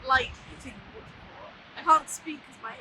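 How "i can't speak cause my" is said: talking through frozen, numb lips. Real, not acted. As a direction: lips too cold to move properly. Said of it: "I can't speak 'cause my lips are frozen".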